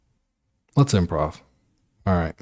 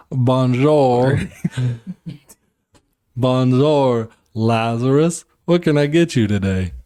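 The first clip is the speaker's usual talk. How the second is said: shaky-footed attempt at a French accent; 2 semitones higher than usual. Butler greets the billionaire on the yacht, attempted French accent. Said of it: "how do you do a French accent".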